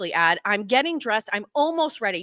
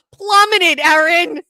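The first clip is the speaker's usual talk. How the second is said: much higher, louder comic wail; 7 semitones higher, 10 dB louder, slower than usual. Real, not acted. Complaining to Erin about the photo, loud comic wail. Self-esteem joke to friend.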